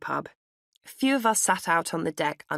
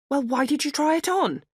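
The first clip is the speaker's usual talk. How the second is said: higher, puzzled shop assistant voice; puzzled sales assistant; 10 semitones higher, 4 dB louder than usual. A narrator's reading. Sales assistant baffled by an adult customer, higher and puzzled.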